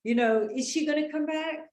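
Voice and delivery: high, loud and frantic; anxious boyfriend panicking as his girlfriend leaves; panicky. Retold or imitated. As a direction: act like you're freaking out she won't come back. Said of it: "like, you're freaking out".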